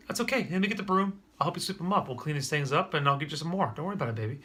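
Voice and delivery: reassuring dad. Acted. Dad reassures daughter after spill.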